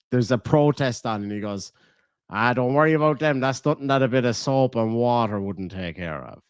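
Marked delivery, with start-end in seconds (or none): 2.3-6.4 lightly put-on posh dismissive voice; posh guy. Imitating the posh guy from the show, lightly plummy. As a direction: brush off the protest like a snob. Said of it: "the kind of posh guy".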